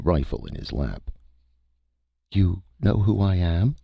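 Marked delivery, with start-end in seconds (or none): 2.3-3.7 alien creature voice. A narrator's reading. Cytha speaks from the dark.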